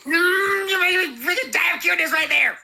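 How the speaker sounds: gushing over cuteness. Real, not acted. Melting over a cute baby noise.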